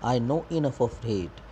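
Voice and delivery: slow poem reading. Shown as a demonstration. Teacher reads poem line slowly.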